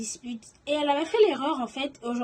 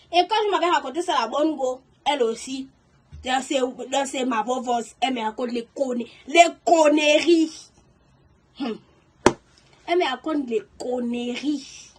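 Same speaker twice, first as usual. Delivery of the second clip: heated telling; 5 dB louder than usual. Real, not acted. Storyteller fuming to viewers about her friend's lies, heated. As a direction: vent it fast then land hard on conneries.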